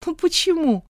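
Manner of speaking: bright surprised why. A narrator's reading. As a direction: ask in open surprise. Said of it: "удивилась я".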